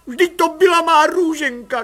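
vysoké naříkavé kvílení; kvílet zoufale a hlasitě. A narrator's reading. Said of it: "kvílela mladá paní". (zoufale kvílící matka)

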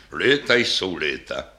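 slow, low wistful sigh; a touch of weary age. Acted. Old bass reflects on his years, mild sigh. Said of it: "A hluboce vzdychla".

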